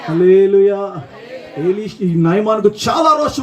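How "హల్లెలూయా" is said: two rising hallelujah shouts; rousing church shouts. Real, not acted. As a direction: rouse the crowd. Leads congregation call.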